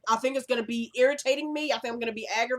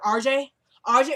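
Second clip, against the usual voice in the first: calling out; 3 semitones higher, 6 dB louder than usual. Retold or imitated. Father calls to crying baby.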